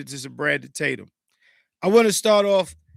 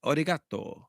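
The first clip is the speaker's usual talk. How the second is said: softer fake-Japanese word list; mock Japanese; 4 dB quieter than usual. Shown as a demonstration. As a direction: imitate Japanese, one word at a time. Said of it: "That's how Japanese sounds".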